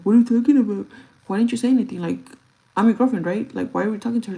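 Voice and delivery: put-on girlfriend demanding why he stayed silent; indignant girlfriend. Girlfriend confronting her boyfriend, indignant and loud.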